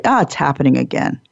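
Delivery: a tired onlooker grumbling under the breath; weary watcher. Retold or imitated. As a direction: mutter it like you've seen this before. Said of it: "the watchers look at each other and say".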